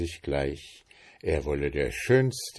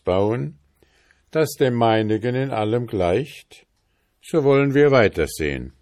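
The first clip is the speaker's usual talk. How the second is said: king setting a challenge; 4 dB louder than usual. Acted. King offers the boy his daughter for a ship, lightly voiced challenge. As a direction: put the challenge as a slightly emphatic king. King figure in narrated tale.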